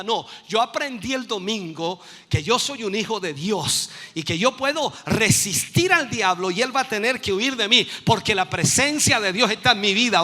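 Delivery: emphatic declaration. Acted. Preacher models a believer answering the enemy's attack, loud bold declaration. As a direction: build to loud, forceful preaching.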